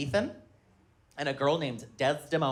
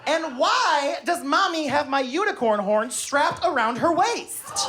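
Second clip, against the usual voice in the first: put-on higher curious child voice, rising to a squeal; imitating his daughter; 8 semitones higher than usual. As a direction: pester dad with innocent questions. Daughter's questions voiced in story.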